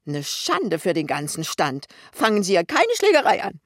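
scandalised cry; alarmed shouting. A narrator's reading. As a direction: call out loudly to stop the fight. Cry of outrage as fight starts.

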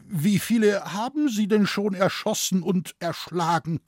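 high, horrified scholar's question; appalled stammer. A narrator's reading. Scholar asks forester how many he killed, appalled stammer. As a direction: ask it aghast, pitched well up. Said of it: "schluckte schwer und stammelte".

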